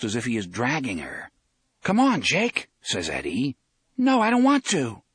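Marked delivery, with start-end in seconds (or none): 1.8-2.7 high, raised urging call. A narrator's reading. Eddie urges Jake down the corridor, urging. 4.0-5.0 high, loud protest; distressed refusal. A narrator's reading. Jake refuses to follow Eddie, distressed protest.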